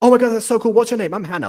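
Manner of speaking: very excited, very high-pitched, loud gushing. Explaining how a line was meant to be said, imitating a very excited voice. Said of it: "like a very excited".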